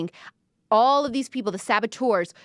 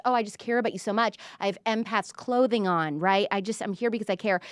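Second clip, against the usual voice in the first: fake caring. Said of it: "pretending to just".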